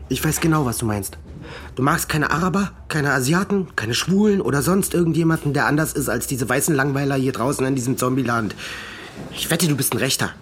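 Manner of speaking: angry. Acted. Son accuses father, rising anger.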